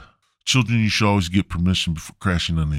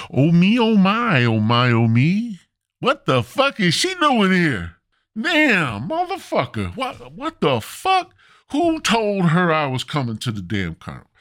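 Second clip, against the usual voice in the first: high, louder panicking squeal; panicked; 12 semitones higher, 3 dB louder than usual. Retold or imitated. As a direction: freak out at being caught. Spotting his girlfriend, panic.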